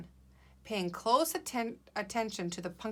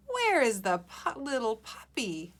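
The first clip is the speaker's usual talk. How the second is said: higher, exasperated asking; frustrated, tired question; 3 semitones higher than usual. Acted. Teacher models Bella after a long search, frustrated and tired. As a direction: ask it like you're worn out searching. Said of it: "sound a little frustrated and tired".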